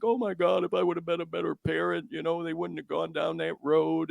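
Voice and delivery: lightly voiced guilty parent, a bit quick; a hint of a parent blaming themselves; imitating a worried parent. Voicing a guilt-ridden parent.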